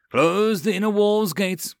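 commanding. A narrator's reading. Lord orders gates closed.

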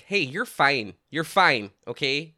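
lightly Minnesotan on "fine"; Minnesotan accent. Retold or imitated. Dog daycare worker settling dogs acting up, slight Minnesotan accent. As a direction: reassure with a touch of Minnesota accent. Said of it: "other than the word fine".

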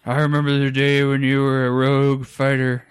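lightly voiced old man; a hint of an old man reminiscing; old guy voice. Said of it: "is that your old guy voice".

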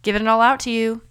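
high, giddy voice tossing out money; playful God handing out. Pretend. God gleefully showering grace on everyone, high and playful. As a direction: play a generous God making it rain. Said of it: "He's like".

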